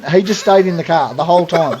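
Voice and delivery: laughing through the words; amused disbelief, laughing. Real, not acted. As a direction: chuckle as you tell it. Amused at mate staying put.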